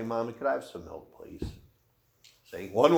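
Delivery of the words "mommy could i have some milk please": polite ask. Shown as a demonstration. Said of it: "season it with salt and say".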